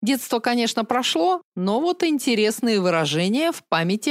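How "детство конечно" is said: usual speaking voice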